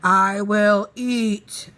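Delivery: slow, loud menacing growl. Acted. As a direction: drag out the threat as a growling wolf. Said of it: "a menacing voice growl".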